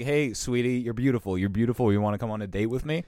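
lightly voiced sleazy flirt; mocking a creep hitting on a stewardess; sleazy nice guy. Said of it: "classic nice guy move".

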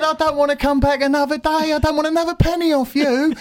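high, sustained heated tirade; worked up, pitched right up; angry resignation. Retold or imitated. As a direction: hurl the resignation at the boss. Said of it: "that's making me more angry".

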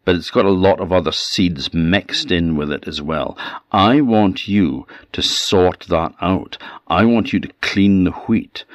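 threatening hag listing chores; menacing witch. Acted. Baba Yaga gives her orders.

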